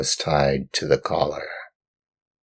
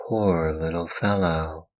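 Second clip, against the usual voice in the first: pitying; 3 semitones higher, 4 dB quieter than usual. Acted. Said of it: "stopping to look at him with pity".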